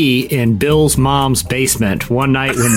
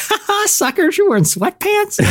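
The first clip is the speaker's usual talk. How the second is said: mocking French voice, pitched way up; terrible French accent. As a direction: sneer it like a cartoon Frenchman gloating. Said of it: "that was a terrible French".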